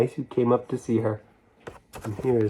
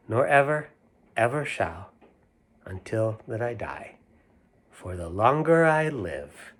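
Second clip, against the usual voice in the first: sing-song nursery rhyme reading; lilting storybook recital. A narrator's reading. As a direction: read it like a rhyme to children. Reads rhyme aloud.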